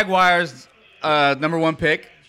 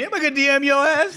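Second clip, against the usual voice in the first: frat bro; 10 semitones higher than usual. Retold or imitated. Mocking friend, high laughing voice.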